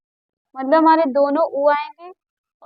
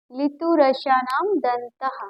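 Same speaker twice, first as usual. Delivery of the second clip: slow recitation; slower than usual. Shown as a demonstration. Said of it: "क्या आता है?".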